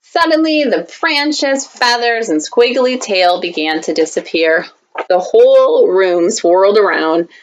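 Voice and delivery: put-on lively read-aloud for kids; story reading. Teacher reading a picture book to students, storytime voice.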